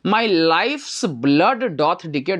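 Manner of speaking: very slow, drawn-out verse line; slow poem recitation. Shown as a demonstration. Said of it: "reads the verse line". (धीमा कविता पाठ)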